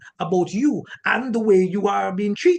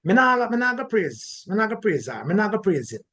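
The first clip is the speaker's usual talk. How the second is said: stubborn refusal; 3 semitones higher than usual. Retold or imitated. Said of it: "don't say".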